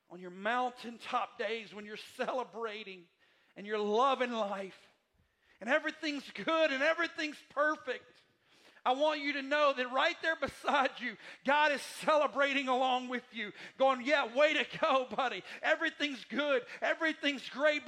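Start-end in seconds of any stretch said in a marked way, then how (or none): 3.6-14.0 loud, high, soaring preacher voice; full-force preaching. Acted. Preacher to his congregation about life's mountaintop days, loud and high. 14.0-17.9 a hint of God as an upbeat buddy, loud and high; cheering God. Preacher voicing God celebrating beside you, loud and cheery.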